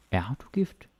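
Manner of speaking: gift stressed with a rising question tune. Shown as a demonstration. Teacher showing learners the stress on gift. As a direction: lean on gift and lift the end. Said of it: "you can also put the stress in different places".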